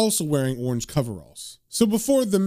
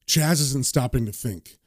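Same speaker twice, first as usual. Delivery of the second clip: lightly voiced, low inner monologue; understated dismay; the speaker's reluctant narration; 3 semitones lower than usual. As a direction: grumble it to yourself in character.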